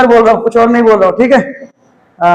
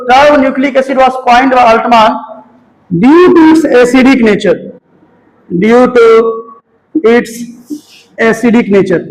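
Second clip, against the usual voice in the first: slow, word-by-word dictating pace; slow classroom dictation; much slower than usual. Shown as a demonstration. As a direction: spell it out slowly so students can write. Teacher dictating definition to class.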